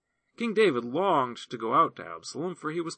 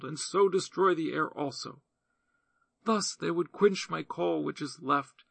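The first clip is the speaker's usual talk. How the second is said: a hint of a higher, earnest woman's voice; lightly voiced pleading widow; 4 semitones higher than usual. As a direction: plead your case gently to the king.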